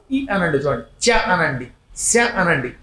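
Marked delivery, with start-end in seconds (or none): 1.0-1.2 చ said alone with tongue to palate; palatal consonant. Shown as a demonstration. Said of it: "ఇవి తాళవ్యములని పిలువబడతాయి". 2.0-2.1 శ with tongue raised to the palate; palatal sibilant. Shown as a demonstration. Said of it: "నాలుక పైకి ఎడుతూ ఉంటుంది".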